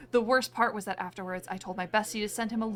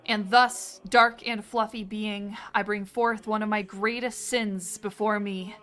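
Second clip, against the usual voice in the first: solemn, archaic pleading read; solemn confession; 3 semitones lower than usual. Acted. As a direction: confess like at a dark altar. Ritual confession reading.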